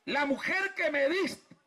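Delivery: high, slow blaming whine; Adam whining his excuse to God; whiny excuse. Retold or imitated. (Adán quejándose, agudo y lento)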